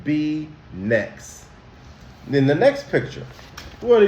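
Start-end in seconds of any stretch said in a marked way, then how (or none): 0.0-1.4 gentle polite ask. Shown as a demonstration. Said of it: "He asked".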